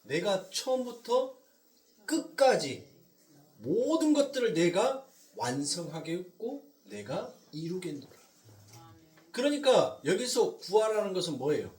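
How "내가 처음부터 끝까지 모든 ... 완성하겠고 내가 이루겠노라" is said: slow, solemn declaration of a divine promise; God's solemn vow. Acted. Preacher voicing God's promise before creation, slow and solemn. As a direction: proclaim it slowly like a sacred oath. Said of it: "언약, 즉 말로 여러분들 약속한".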